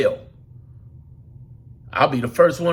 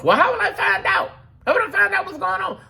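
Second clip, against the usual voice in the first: much higher, fast, fretful put-on voice; hammed-up high fretting; mock worried listener; 14 semitones higher than usual. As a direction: ask it like a nervous follower.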